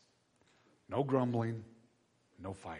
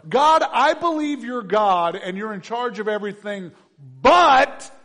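griping to God, loud with a sharp "but"; mock gripe prayer; 8 semitones higher, 13 dB louder than usual. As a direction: complain to God like a grumbler. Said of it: "all of our gripes are".

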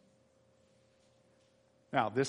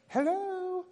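playful hello. Real, not acted. Calling out to congregation.

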